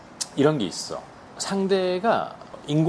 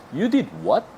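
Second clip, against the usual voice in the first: did higher with a fall; sloppy, offhand surprise; lightly mock-shocked; casual surprise; 6 semitones higher, much slower than usual. Shown as a demonstration. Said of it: "되게 허접해요".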